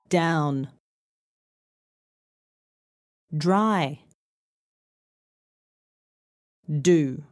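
"Down. Dry. Do." each opening on a d with little air; isolated model words, gentle d starting "Down", "Dry", "Do"; clear D words. Shown as a demonstration. Teacher leading d practice, little puff of air. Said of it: "same thing with the d sound".

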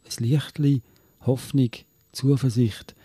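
Swiss German poem, read with pauses between short lines; Gedichtvortrag. Acted. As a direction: recite it line by line, measured. Reads a second poem aloud. (Gedicht auf Schweizerdeutsch vortragen)

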